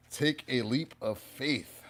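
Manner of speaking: slow emphatic repeat; slow and deliberate. Shown as a demonstration. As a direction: take a leap of faith drawn out slowly. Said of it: "The universe is saying".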